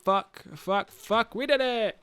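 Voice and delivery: chant-like patter building to a triumphant high finish; building excitement. Acted. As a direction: act out a game building to a win. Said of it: "games should go like this".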